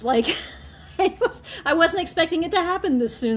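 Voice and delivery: high, excited and laughing; laughing while talking. Real, not acted. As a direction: giggle through the words. Excited about donor, laughing.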